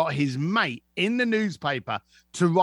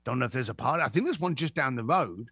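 mock clueless mate; 4 semitones lower, faster than usual. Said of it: "And he's like".

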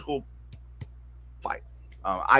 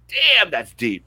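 impressed reaction; 5 semitones higher, 9 dB louder, much slower than usual. Retold or imitated. Awed reaction to elders' wisdom.

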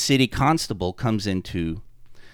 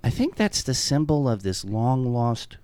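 a singer realizing; 5 dB quieter than usual. Retold or imitated. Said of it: "I think it was a singer, realized".

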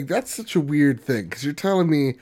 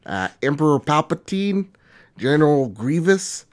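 put-on Minnesotan accent; 3 dB louder than usual. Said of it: "I'll do it in my Minnesotan accent".

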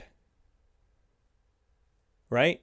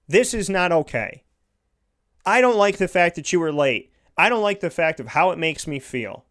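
retold firm anger; 3 semitones higher than usual. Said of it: "he didn't raise his voice".

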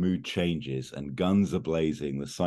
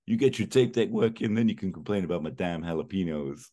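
retorting jab; 4 semitones higher than usual. Retold or imitated. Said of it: "and Jimmy just goes".

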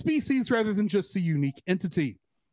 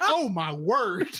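laughing dismay; slower than usual. Retold or imitated. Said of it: "it's just like".

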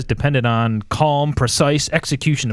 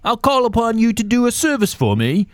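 put-on Godfather speech in a Michael Caine-like accent; British mob accent; 3 semitones higher than usual. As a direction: intone it as a British mob boss. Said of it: "You sound like that actor".

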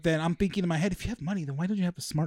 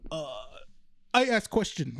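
halting mock Russian accent, pitched up. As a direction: imitate a hesitant woman with a Russian accent. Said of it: "it sounds like a Russian accent".

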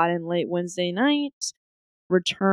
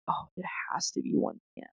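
whisper; 3 semitones lower, 9 dB quieter, faster than usual. Retold or imitated. Whispered inner thought on vacation.

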